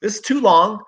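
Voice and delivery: the restless dog begging to go out; voicing the dog. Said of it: "He's like".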